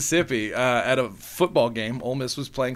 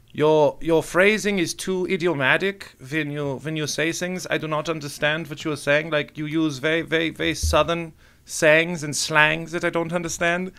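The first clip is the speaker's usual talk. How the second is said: put-on German accent. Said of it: "The German accents that you do is very good".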